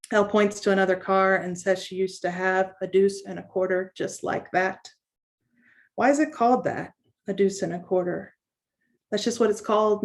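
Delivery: measured poem reading with pauses between lines; understated literary reading, line by line. Acted. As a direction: read a poem aloud, lightly voicing the dialogue. Reads own poem to audience.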